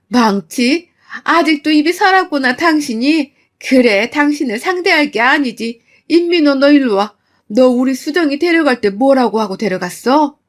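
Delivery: mother-in-law's target shifts to the husband; furious mother. Acted. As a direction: demand answers from the son-in-law. Mother confronts son-in-law.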